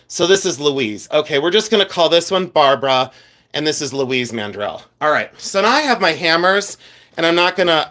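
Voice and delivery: half-shouting with excitement at the viewers; excited yelling. Real, not acted. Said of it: "I don't know why I'm screaming".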